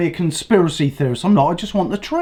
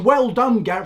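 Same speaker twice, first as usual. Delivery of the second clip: mocking the new guy; 4 semitones higher than usual. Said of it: "the new guy ... going".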